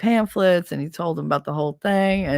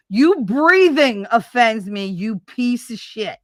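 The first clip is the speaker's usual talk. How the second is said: angry; 4 semitones higher, 4 dB louder, slower than usual. Real, not acted. Ranting at ex-husband.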